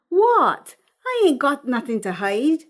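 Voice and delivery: high, cheeky what; cackling mother. Acted. Mother shamelessly teasing her embarrassed daughter, high and cheeky. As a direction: brush it off shamelessly.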